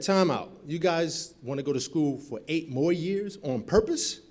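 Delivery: loud, high, slow incredulous voice; shocked disbelief. Retold or imitated. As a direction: stop them cold in disbelief.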